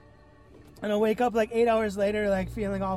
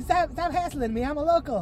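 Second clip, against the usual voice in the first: put-on higher, protesting Canadian accent; Canadian scientist; 6 semitones higher, 3 dB louder than usual. Canadian scientist protesting to the patient, mock Canadian accent. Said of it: "the, the Royal Canadian Ministry of Science".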